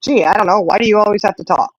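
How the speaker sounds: sassy mock retort; sarcastic comeback. Mom firing back at her chatty daughter, sarcastic. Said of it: "And I said".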